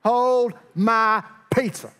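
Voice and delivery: high, loud, drawn-out boast; mock-heroic bravado. Young David heading out to fight Goliath, mock-heroic bravado. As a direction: announce it slow and big, hammed-up.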